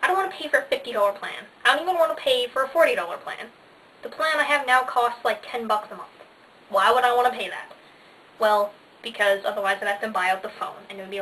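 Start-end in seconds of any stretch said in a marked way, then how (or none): 0.0-7.7 mock outrage at the price; indignant. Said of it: "I'm like".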